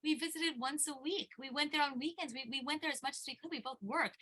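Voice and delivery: high, tearful pleading imitation; retold bawling. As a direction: protest through mock sobs, pitched well up. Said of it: "like, bawling".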